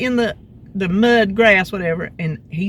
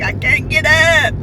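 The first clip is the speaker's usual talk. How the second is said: retold crying; 8 semitones higher, 5 dB louder, slower than usual. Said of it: "I'm crying".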